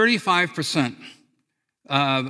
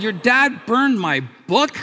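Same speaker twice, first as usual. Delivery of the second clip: retold disbelief, louder, higher and slow; stunned disbelief; 6 semitones higher, 5 dB louder, slower than usual. Teen telling his friend, retold shocked disbelief. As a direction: replay the shock of hearing the book was burned. Hearing friend's dad burned book.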